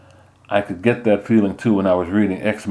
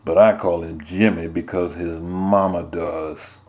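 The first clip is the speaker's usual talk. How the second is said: ice in her voice; slower than usual. Acted. Mother warning her son off, coolly and slowly. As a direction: let the chill show, unhurried. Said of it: "with ice in her voice".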